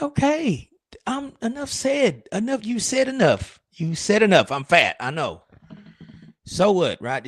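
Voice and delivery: high-pitched indignant comeback; offended high voice. Retold or imitated. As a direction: squeak back like a hurt, defensive squirrel. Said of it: "I'm like".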